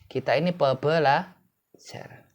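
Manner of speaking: slow, syllables of pebelajar pulled apart; slow emphasis. Shown as a demonstration. Teacher drumming home to learners what they are, slow and emphatic. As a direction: spell out pebelajar by sound, unhurried. Teacher repeats key word, broken up.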